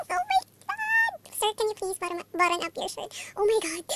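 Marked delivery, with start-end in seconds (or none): 0.1-1.2 high, slow and stretched oh my god; drawn-out fan squeal. Real, not acted. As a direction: melt over the photo, drawing it out. Fangirl squeal at photo.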